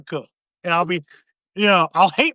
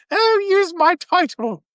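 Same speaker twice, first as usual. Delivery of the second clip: higher, slow, hammed-up lover's plea; mock seductive, higher and slow; mock breathy plea; 10 semitones higher, slower than usual. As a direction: coo it like a kinky noble. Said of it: "And it's just like".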